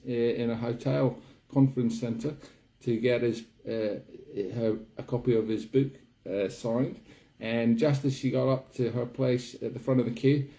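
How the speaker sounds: hammed-up New Zealand accent, chatty; bad New Zealand accent. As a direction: put on a clumsy New Zealand accent all the way through. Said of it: "one of the worst accents I've ever done".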